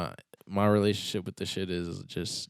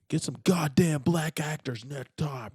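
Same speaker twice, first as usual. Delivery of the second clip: mock comment; 8 semitones higher, 4 dB louder than usual. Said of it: "It would've been in the comments".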